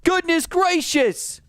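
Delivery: high, slow incredulous exclaim; high disbelief. Real, not acted. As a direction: stretch it out in disbelief. Round reset, disbelief.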